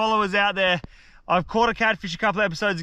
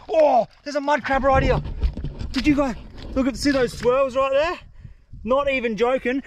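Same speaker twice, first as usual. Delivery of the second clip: excited; 6 semitones higher than usual. Real, not acted. Spots a mud crab.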